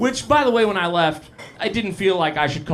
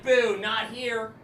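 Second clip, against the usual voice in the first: slow disapproving boo; 4 semitones higher, 6 dB quieter, much slower than usual. Retold or imitated. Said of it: "she was like".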